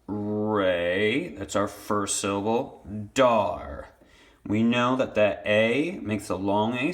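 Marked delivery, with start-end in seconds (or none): 0.1-1.3 "Ray" stretched out as its own syllable; first syllable alone. Shown as a demonstration. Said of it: "two syllables". 3.1-3.9 "Dar" on its own, drawn out; second syllable alone. Shown as a demonstration. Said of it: "two syllables".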